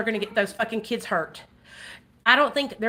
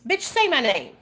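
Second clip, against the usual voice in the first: slow taunting dare, a little higher; drawn-out mocking challenge; sassy challenge; 4 semitones higher, slower than usual. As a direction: say my name like a dare. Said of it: "and I thought".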